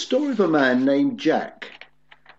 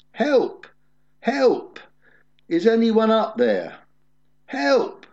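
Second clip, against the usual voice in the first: high, loud cries for help from a cliff; yelling for help; 11 semitones higher, 3 dB louder, slower than usual. Acted. Man hanging from a branch shouting for help, loud and high. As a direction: call up desperately for rescue. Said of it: "Jack began yelling for help".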